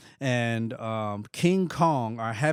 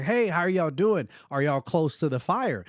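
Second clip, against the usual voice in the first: higher, lightly voiced check-in; concerned texters; 4 semitones higher than usual. Friends texting the family about the fires, lightly voiced concern. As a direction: lightly imitate people checking in. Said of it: "texting us and they're like".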